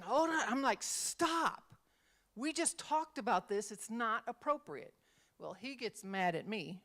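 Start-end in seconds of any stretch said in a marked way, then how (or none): 0.0-1.6 high, firm cut-in; sharp teacher tone. Retold or imitated. Teacher stopping a student's inappropriate story, sharp. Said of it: "because of my tone of voice". 2.3-4.9 raised, firm reprimand; scolding teacher tone. Retold or imitated. Teacher reprimanding a student, scolding. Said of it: "because of my tone of voice".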